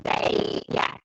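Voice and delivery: glitchy robotic call audio; distorted robot sound from bad connection. Real, not acted. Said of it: "everyone's saying you sound like an alien".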